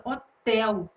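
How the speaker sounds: hotel com a sílaba final TEL mais forte; tônica em TEL. Shown as a demonstration. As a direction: diga hotel marcando o TEL. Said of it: "a sílaba tônica na sílaba, é, tel". (hotel com força no TEL)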